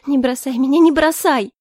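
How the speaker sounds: высокая громкая отчаянная мольба; цепляется голосом, как брошенный ребёнок; детская мольба. Acted. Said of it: "Её детский потерянный голосок". (испуганная девушка умоляет не бросать её: высокий громкий плач-мольба)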